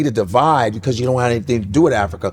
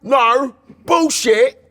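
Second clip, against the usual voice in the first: mock British scoffing; 10 semitones higher, much slower than usual. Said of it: "and the British people like".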